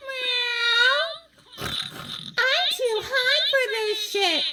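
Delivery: slow high giggling; laughing. Real, not acted. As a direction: laugh helplessly. Stoned laughter.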